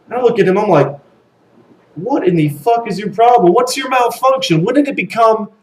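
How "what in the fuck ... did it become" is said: high-pitched exasperated challenge; mock indignant. Challenging the burly guy over crying, incredulous. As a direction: retell confronting someone in raised, incredulous pitch.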